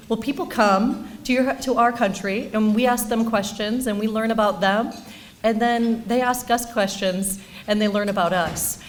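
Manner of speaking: a hint of a child's voice, phrase by phrase; ten-year-old son. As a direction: imitate a young boy patiently explaining. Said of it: "And he goes".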